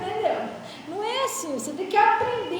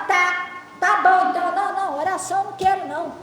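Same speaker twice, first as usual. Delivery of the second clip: dismissive brush-off; 6 dB louder than usual. Retold or imitated. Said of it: "troço tão fingido".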